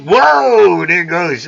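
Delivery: sudden high, loud whoa, then back down; mock surprised whoa. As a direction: yelp it like losing an arm in a film. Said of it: "He's like".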